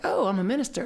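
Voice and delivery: lightly pleased with oneself, slightly lifted; retold self-satisfied realization; a little cocky. New minister telling themselves the news, a little cocky. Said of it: "I was a little cocky".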